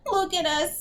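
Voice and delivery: high-pitched complaint; despairing whine. A narrator's reading. Raina bewails their ugliness to Agatha, despairing whine. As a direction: moan it with self-pity.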